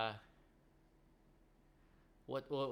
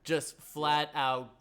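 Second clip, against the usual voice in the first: very slow emphasis; 5 dB louder, much slower than usual. Real, not acted. Slamming the bad movie.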